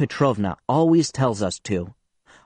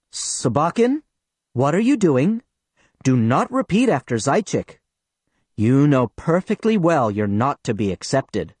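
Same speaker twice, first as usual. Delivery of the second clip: stern voice. Acted. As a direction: scold the boy in front of the class. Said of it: "says in a stern voice".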